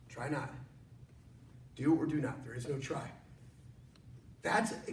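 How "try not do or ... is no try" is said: Yoda voice. Retold or imitated. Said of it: "Master Yoda said".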